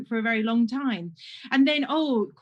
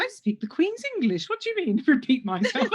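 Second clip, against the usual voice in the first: mock indignation; 3 semitones higher than usual. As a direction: act offended, breaking into a laugh. Retold mock-indignant reply about her accent.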